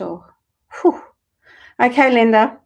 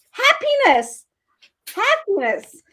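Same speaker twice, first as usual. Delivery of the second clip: excited reveal; 11 semitones higher, slower than usual. Real, not acted. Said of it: "reading card joyfully".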